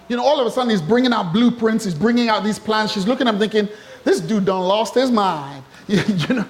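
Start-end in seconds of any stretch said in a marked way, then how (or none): 4.0-5.6 slow drawling put-on accent; slow mock accent. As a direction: lean into a different accent, slow. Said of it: "different accent".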